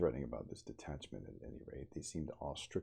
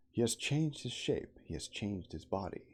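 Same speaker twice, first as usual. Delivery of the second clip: raised voice; 6 semitones higher, 3 dB louder than usual. Acted. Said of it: "lifted up my voice".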